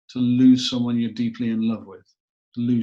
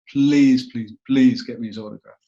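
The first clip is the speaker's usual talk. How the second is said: retold pleading; 7 dB louder than usual. Retold sister begging for autograph.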